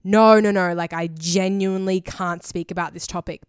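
loud no, no, no, then settling back; retold loud refusal. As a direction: insist loudly, then calm down. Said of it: "I would say again".

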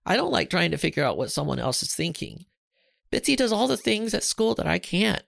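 put-on boy upset, telling his mom what scares him. A narrator's reading. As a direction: pour out the fears to mom. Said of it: "Charlie explained".

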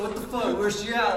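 mock-furious yell, hunting for her; retold angry demand. Retold boyfriend demanding his girlfriend.

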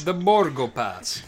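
slow, put-on "The Borgo Pass"; ominous echo. Cohost echoing the creepy line, slow ominous voice. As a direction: echo it spookily.

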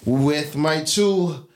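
drawn-out podcast host introduction; slow, deliberate announcer-style welcome; show intro. Acted. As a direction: open the show grandly, stretching out the names.

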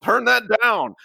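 imitated dad's complaint, high and drawn-out; dad yelling. Host imitating dad yelling at someone outside, slow high mock yell. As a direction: stretch it out like a dad hollering outside. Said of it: "like, yelling at someone".

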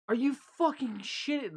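high-pitched indignant disbelief; retold pissed-off reaction. Confronting the coworker who took his food, retold indignation. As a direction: retell an incredulous, angry challenge. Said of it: "I, like, I was pissed".

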